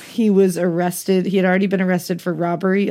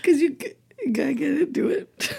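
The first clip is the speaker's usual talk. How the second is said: laughing; 7 semitones higher, 5 dB quieter, faster than usual. Real, not acted. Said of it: "disturbed at the face you just made".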